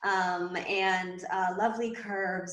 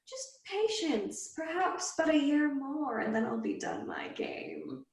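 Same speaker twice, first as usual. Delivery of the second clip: teasing fiend; 3 semitones higher than usual. Acted. The fiend taunting the possessed boy, amused and high. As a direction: savour every word, toying with him.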